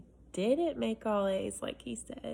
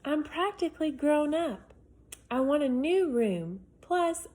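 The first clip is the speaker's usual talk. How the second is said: lightly voiced eager boy, pitched up; kid's letter voice. Reading to children, a hint of an eager boy. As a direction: read it like a boy pleading his case. Reads Alex's letter aloud.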